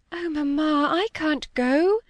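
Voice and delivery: put-on distressed young girl crying out. A narrator's reading. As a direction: beg her not to make you go. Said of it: "cried Molly".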